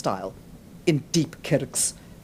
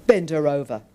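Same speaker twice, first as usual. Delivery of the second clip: commanded; 2 semitones lower, 4 dB louder than usual. Acted. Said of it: "Gulnara commanded".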